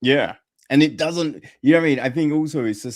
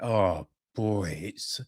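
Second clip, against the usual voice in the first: mock despair; 4 semitones lower than usual. Imagined filmmaker moaning to a friend, sighing despair. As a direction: play a weary filmmaker ready to quit, half-hearted.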